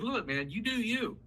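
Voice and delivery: mildly voiced validating parent; accepting parent. Shown as a demonstration. Parent telling an angry kid it's fine to feel it, easygoing. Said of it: "you say to your kid".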